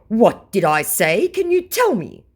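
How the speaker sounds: high, pleading put-on voice; mock scammer whine. Mimicking the scammer fishing for information, in a high whiny voice. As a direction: play the clueless scammer begging for hints.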